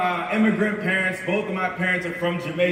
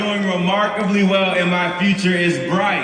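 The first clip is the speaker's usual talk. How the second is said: call and response, loud; 5 dB louder than usual. Shown as a demonstration. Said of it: "I want everybody to repeat after me".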